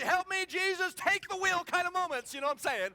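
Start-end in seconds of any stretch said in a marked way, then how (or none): 0.0-1.6 loud, high plea to Jesus; mock panicked prayer. Wife sliding on the ice, loud mock plea. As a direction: cry out like losing control of the car. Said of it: "kind of what you see".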